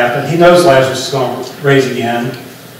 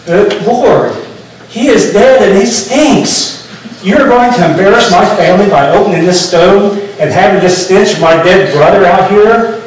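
mildly hammed-up appalled objection, pitched up on "stinks"; appalled protest; 3 semitones higher than usual. Martha objecting to Jesus about opening the tomb, appalled protest. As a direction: act out an embarrassed relative protesting, drawing out the worst part.

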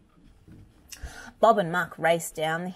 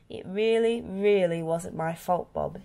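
upset; 2 semitones higher than usual. Acted. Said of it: "he cried".

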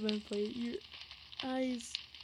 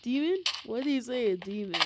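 surprised; 6 dB louder than usual. Real, not acted. Shocked reaction to game text.

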